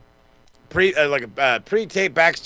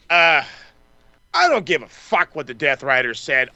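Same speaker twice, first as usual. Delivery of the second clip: usual speaking voice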